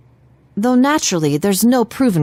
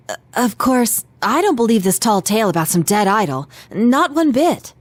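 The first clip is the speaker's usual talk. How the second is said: nervous bravado; 3 semitones higher than usual. Acted. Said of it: "you're scared, huh?".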